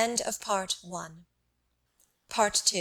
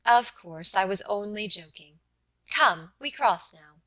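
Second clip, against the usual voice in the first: soft friendly tone. Acted. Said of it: "said in a soft, friendly tone".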